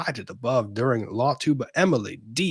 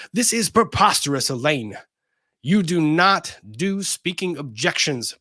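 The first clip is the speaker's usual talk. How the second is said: exasperated; 3 semitones higher, 4 dB louder than usual. Retold or imitated. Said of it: "Baker is exasperated".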